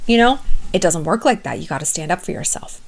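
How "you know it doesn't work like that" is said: ordinary delivery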